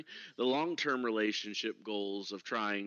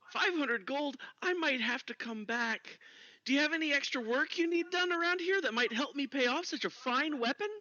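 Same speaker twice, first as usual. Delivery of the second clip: raised dwarf voice, surprised; startled dwarf, pitched up; high dwarf voice. Acted. Dwarf character haggles.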